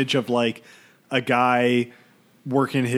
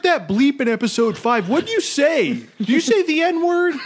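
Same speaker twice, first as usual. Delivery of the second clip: laughing; 13 semitones higher than usual. Real, not acted. Mock accusation, laughing.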